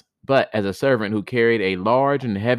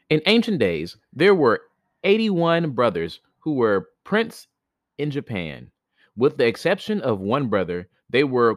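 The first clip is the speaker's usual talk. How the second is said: story narration; 2 semitones higher than usual. A narrator's reading. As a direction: read it like an old legend. Reads the tale aloud.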